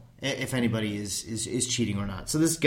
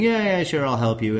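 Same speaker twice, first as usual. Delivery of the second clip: quick easy yes, pitched up at first; mock-casual willingness, louder at the start; eager agreement; 3 semitones higher, 4 dB louder than usual. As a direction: imitate someone agreeing readily. Voices American agreeing too readily.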